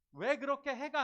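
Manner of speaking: loud, high reproachful snap; harsh reproach. Shown as a demonstration. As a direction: show the wrong, scolding way. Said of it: "아니라". (어린이집 교사가 하면 안 되는 높고 큰 꾸짖음)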